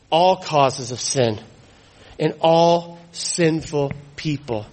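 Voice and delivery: preacher hammering "all", pausing between phrases; stress on all. Real, not acted. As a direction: lean firmly on the word "all". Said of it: "notice the emphasis on the word all".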